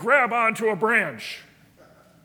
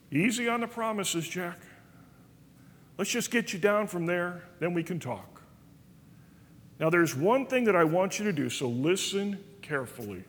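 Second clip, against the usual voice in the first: softer, unhurried voice of God; God calmly talking Jack down, softer; calm, soft Lord; 2 semitones lower, 4 dB quieter than usual. Retold or imitated. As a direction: reassure the frightened man gently.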